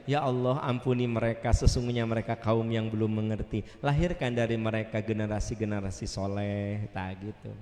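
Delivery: low, even prayer of forgiveness; gentle, subdued prayer; Prophet praying. Acted. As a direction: plead humbly with God. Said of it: "Ari Nabi mah dilempari batu teh".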